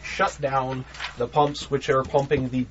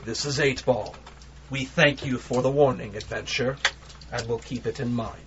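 dark gravelly voice; 2 semitones lower, 3 dB quieter than usual. Acted. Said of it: "a more dark, gravelly voice".

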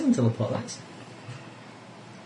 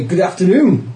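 polite greeting; 3 semitones higher, 5 dB louder, slower than usual. Acted. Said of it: "I shall say".

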